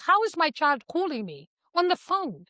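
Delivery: high-pitched acted disbelief; a touch of a mother's panic; freaking out. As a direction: imitate a mother starting to panic. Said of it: "she's freaking out".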